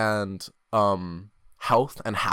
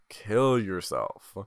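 deadpan; 3 semitones lower, much slower than usual. Acted. Joke about pricey shoes.

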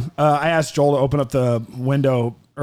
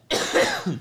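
cough; 4 dB quieter than usual. Real, not acted. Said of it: "I had something in my throat".

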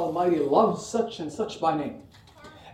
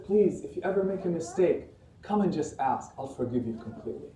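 soft reassuring; 6 dB quieter than usual. Acted. Voicing God's forgiving invitation.

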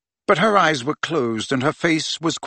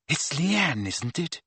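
gentle question; 7 dB quieter than usual. A narrator's reading. Hermione comforts the wailing friend.

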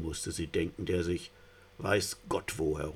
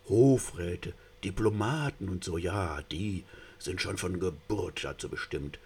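mock awe. Mock-admiring fish praises officials.

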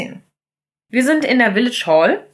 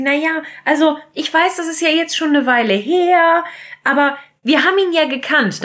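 timid maid; 6 semitones higher than usual. Retold or imitated. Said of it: "dann sagt Daisy".

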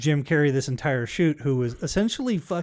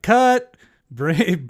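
loud, higher yell of cut; 4 semitones higher, 5 dB louder than usual. Retold or imitated. Director stopping the stunt, loud yell. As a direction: shout to stop the take. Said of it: "He drops the stuntman".

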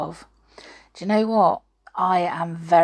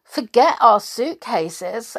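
exclaiming; 3 semitones higher, 5 dB louder, slower than usual. Acted. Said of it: "exclaimed Minnie".

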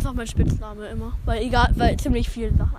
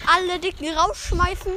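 high, slow sing-song echo; mimicked driver's call; 5 semitones higher than usual. Passenger mishearing the driver, sing-song call. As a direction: draw it out like an announcement.

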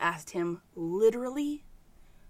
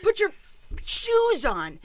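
high, loud yell breaking into a laugh; half-laughing shout at the kid; mock yell; 12 semitones higher, 7 dB louder, slower than usual. Mom showing how she yells at her son, half laughing.

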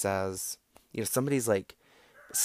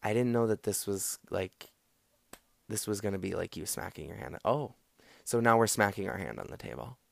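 calm mirroring. Shown as a demonstration. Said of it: "and you just be like".

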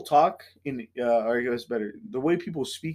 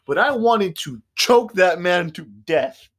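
comic fury; 4 semitones higher, 6 dB louder, slower than usual. Real, not acted. Venting rage at customer.

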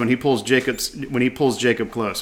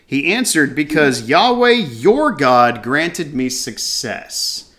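slow reading; slower than usual. Shown as a demonstration. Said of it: "which I find interesting".

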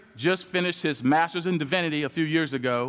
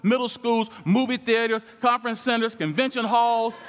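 preaching build-up; 5 semitones higher than usual. Real, not acted.

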